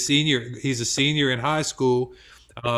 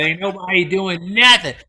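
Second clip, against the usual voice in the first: bossy auntie; 5 semitones higher, 4 dB louder than usual. Retold or imitated. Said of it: "She said".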